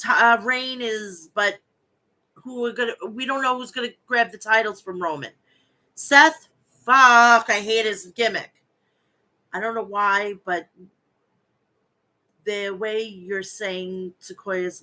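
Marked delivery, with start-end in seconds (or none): 5.9-8.5 frustrated outburst. Real, not acted. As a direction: burst out in real annoyance. Outburst about hated gimmick.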